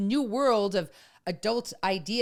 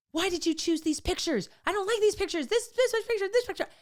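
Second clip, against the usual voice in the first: put-on higher, whiny complaining teen; annoyed teen son; 11 semitones higher than usual. Teen son griping to mom about party photos, whiny. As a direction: complain like a stressed teenager picking at everything. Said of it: "he comes down and he's like".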